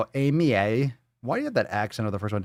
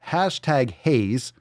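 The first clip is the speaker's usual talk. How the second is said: mock hashtag reading; much slower than usual. Shown as a demonstration. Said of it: "Gotta make sure you get all those hashtags".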